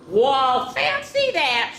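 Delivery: high, slow squeaky exclamation; fancy that. Acted. Reader voicing the refrain for the children, high squeak.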